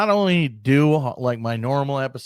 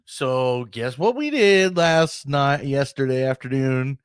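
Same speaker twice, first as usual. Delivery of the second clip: gleeful, teasing higher voice; smug official voice; 3 semitones higher than usual. Retold or imitated. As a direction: brag like a sly government spokesman. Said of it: "they're like".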